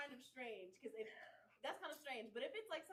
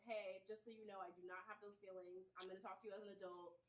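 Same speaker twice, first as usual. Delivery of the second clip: frank adult talk; 4 semitones lower, 6 dB quieter than usual. Acted.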